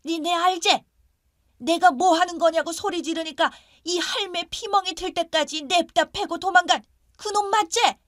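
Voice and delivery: put-on high-pitched old neighbor yelling out in alarm; frightened shouting. Confused neighbor grandmother accuses the man at the door, frightened shouting. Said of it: "소리를 지르고 무서워 부들부들 떨며".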